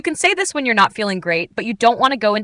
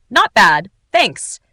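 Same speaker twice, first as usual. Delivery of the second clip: relaxed; 4 dB louder, much slower than usual. Shown as a demonstration. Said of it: "It gives off a relaxed vibe".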